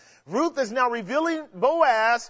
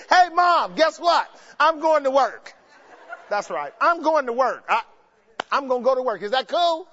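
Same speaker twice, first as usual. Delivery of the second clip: excited Ruth; 3 semitones higher, 4 dB louder than usual. Retold or imitated. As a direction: shout it up like she can't wait to leave. Ruth voiced announcing work.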